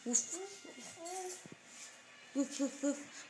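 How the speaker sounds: soft woof. Shown as a demonstration. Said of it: "what does a doggy say?".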